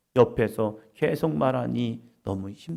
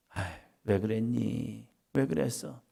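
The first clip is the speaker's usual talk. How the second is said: tender chiding; 4 semitones lower, 7 dB quieter than usual. Retold or imitated. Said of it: "그러면서".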